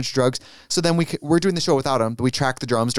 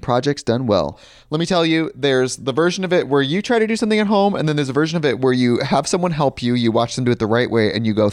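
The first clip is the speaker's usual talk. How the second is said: ad read. Acted. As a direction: sell it like a podcast sponsor spot. Reads sponsor ad.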